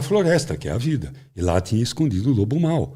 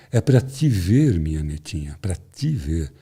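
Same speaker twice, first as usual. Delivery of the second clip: Lobo Mau; 5 semitones lower, slower than usual. Acted. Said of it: "o lobo travestido de vovozinha responde". (lobo disfarçado de vovó, devagar e baixinho)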